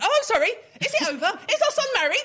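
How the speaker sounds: mother of the groom squeaking sarcastically at her husband. Retold or imitated.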